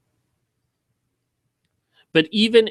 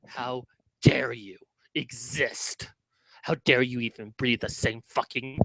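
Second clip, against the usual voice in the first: venomous whisper; 5 semitones lower, 10 dB quieter than usual. Real, not acted. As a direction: breathe it out with contempt. Hissed line in the rant.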